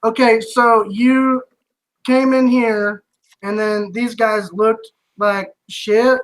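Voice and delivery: slow, drawn-out sarcastic summary; guard slowly mocking the paladin's account; sceptical recap. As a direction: spell out his story doubtfully.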